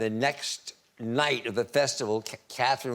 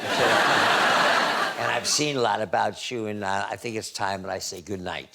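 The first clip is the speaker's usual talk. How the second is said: laughing; 3 semitones lower than usual. Real, not acted. Retelling her put-down, laughing.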